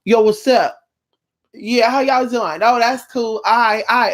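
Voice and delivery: imitating an old man acting young, casual greetings; lightly voiced wannabe youngster; mock dude bro. To the forty-year-old trying to act twenty, a lightly mocking bro voice. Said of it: "somebody's grandpa was walking".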